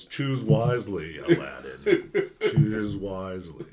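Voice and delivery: slow, lightly voiced silky villain; a hint of a polite cartoon villain; Disney villain voice. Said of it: "The Disney villain voice over here".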